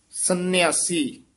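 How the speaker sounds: full rest after ਸੰਨਿਆਸੀ; full pause after. Shown as a demonstration. Teacher marks the ਵਿਸਰਾਮ after ਸੰਨਿਆਸੀ. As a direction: stop fully on ਸੰਨਿਆਸੀ. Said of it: "ਇੱਥੇ ਵਿਸਰਾਮ ਲਾਉਣਾ ਹੈ".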